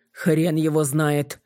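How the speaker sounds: slow, menacing growl. Acted. Kolya answering Kostik, menacing and slow. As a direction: say it with slow threat. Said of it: "грозно отозвался Коля".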